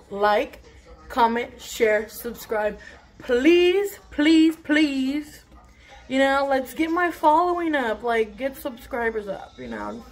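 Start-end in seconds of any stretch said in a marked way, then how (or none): 3.2-5.4 higher, rising playful begging; please please please, higher and pleading. Real, not acted. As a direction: beg the viewers sweetly. Begging viewers to subscribe.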